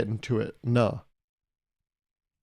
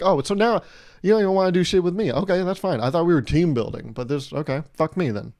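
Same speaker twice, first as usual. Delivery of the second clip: higher and louder, a hammed-up wounded outburst; louder, higher fake-hurt complaint; mock offended huff; 4 semitones higher, 3 dB louder than usual. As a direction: play it like a jilted teammate, pitched up. Mock offended retort to coworkers.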